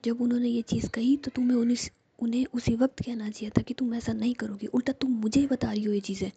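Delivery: a hurt friend's whispered reproach, rising; whispered anger. Acted. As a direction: scold her hotly but never leave the whisper. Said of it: "और तुम मुझ पे गुस्सा कर रही हो".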